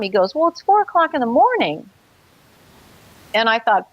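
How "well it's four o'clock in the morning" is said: higher, exasperated stepfather; lightly voiced stepfather. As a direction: point out the hour impatiently. Stepfather pointing out the hour.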